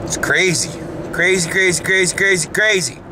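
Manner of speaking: sing-song climb up the scale; rising repetition. Real, not acted. Repeating word, climbing.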